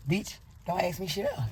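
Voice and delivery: tossed off, only lightly annoyed; mild irritated retort. Retold or imitated. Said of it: "the doctor was getting on my nerves".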